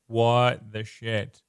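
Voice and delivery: slow, drawn-out shocked "What the shit?"; mock shocked reader. Reader turning the page and seeing the faceless woman, shocked. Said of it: "And you're like".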